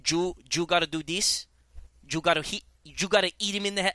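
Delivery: light mock Latin American accent; questioning imitation of a Latin American accent. Doubting the trainer really talks so, light Latin American accent. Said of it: "that's what happened here".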